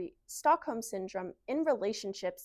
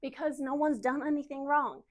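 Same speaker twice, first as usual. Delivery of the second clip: put-on Southern-accented young wife telling her story; earnest Southern storytelling, defending her husband; Southern wife Kara. Plays Kara in monologue.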